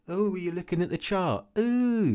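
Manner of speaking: high, sing-song mock of a streamer; mocking imitation. Streamer mocking the viewer's question, high and teasing. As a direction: jeer at him in a high teasing voice. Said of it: "literally making fun of me".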